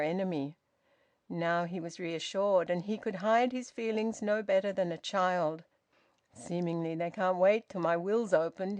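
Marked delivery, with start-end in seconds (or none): none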